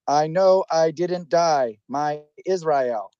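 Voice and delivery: reading like a robot, deadpan. Shown as a demonstration. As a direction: read it out like a robot. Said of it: "I'll just read it like a robot".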